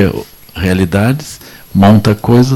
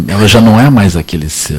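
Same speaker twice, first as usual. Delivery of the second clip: ordinary talk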